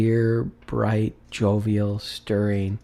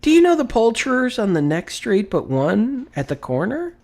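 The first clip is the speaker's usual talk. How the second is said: eager call; 12 semitones higher, 5 dB louder than usual. A narrator's reading. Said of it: "Scrooge inquired".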